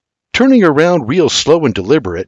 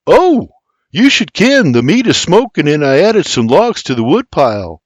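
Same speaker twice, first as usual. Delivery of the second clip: pitched well higher, eager report; eager young man; 5 semitones higher, 3 dB louder than usual. Acted. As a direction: tell him proudly, lightly Irish. William reports his chores.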